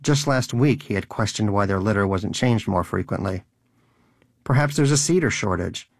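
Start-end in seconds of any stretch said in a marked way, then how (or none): 4.4-5.9 higher, dry mock-innocent sarcasm; sarcastic. Donut mocking the unchanged litter to Danish, sarcastic. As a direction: needle him with fake concern. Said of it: "he'd asked Danish sarcastically".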